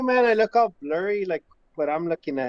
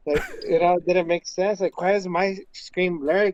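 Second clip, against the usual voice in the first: tipsy rambling. Real, not acted. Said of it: "but I'm drunk".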